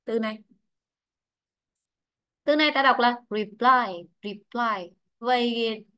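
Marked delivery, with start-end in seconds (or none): 3.3-4.1 "reply" stressed on its second syllable. Shown as a demonstration. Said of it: "trong ấm thì rơi vào". 4.2-4.9 "reply" repeated lower, stressed on PLY; stress on second syllable. Shown as a demonstration. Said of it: "trong ấm thì rơi vào".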